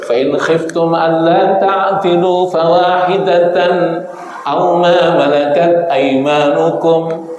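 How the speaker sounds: slow, measured chanted recitation; Quran recitation. Acted. Preacher quoting scripture to the audience, slow recitation. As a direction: intone the verse slowly.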